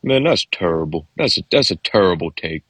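lightly voiced pundit impression; a hint of a celebrity's verdict on "terrible"; Charles Barkley. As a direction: show off your modest celebrity impression. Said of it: "at least I can do".

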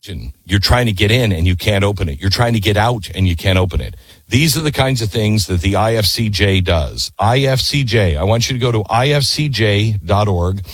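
brisk sponsor read, then slowing on the web address; upbeat host reading a sponsor spot. Acted. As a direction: sell it like a radio ad.

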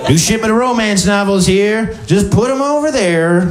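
a hint of a dreamy bookshop owner; used bookstore owner. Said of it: "every person who buys a used bookstore".

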